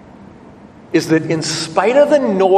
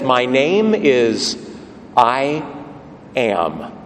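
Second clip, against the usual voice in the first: slow and much lower, sinking on "Am"; solemn God voice; 5 semitones lower, much slower than usual. Retold or imitated. God telling Moses his name, slow and deep. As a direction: let the name fall deep and heavy.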